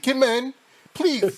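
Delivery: imitating Denox. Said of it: "He's like".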